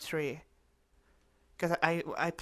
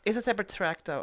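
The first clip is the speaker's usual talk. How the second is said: louder, insistent correction; indignant; 4 semitones higher, 4 dB louder than usual. Real, not acted. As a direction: insist on it, a bit offended. Indignant at being doubted.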